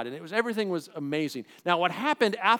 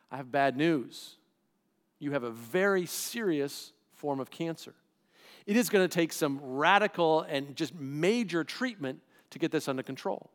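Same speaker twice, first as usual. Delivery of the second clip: grave doctor; 4 semitones lower, 3 dB quieter than usual. Pretend. Doctor delivering a cancer diagnosis.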